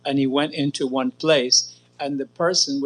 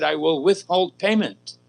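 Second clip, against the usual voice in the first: slow, firm and a bit higher; emphatic demand; 4 semitones higher, slower than usual. Retold or imitated. Prabhupada firmly threatening to withhold payment from the printer. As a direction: lay down the threat slowly. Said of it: "he was very emphatic".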